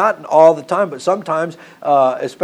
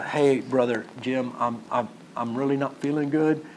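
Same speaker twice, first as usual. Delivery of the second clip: imitated feeble excuse; 3 semitones lower, 8 dB quieter than usual. Member tells the preacher they feel unwell, imitated feeble excuse. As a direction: play a hesitant unwell churchgoer, hushed.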